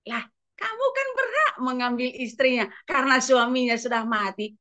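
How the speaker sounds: a hint of a coaxing devil; scheming devil. The devil coaches the king, lightly voiced sly tempter. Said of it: "mulailah iblis mengajari dia".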